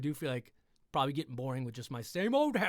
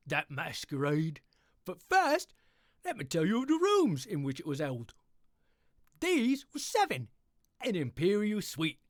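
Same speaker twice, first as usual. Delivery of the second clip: bright, lively storybook narration; happy story reading. Acted. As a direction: read Poe like a cheerful bedtime tale. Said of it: "this is my happy English voice".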